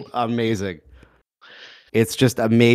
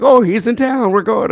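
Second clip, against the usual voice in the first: high, eager "he's in town"; excited locals; 11 semitones higher than usual. Retold or imitated. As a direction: gush like a starstruck local. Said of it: "They're like".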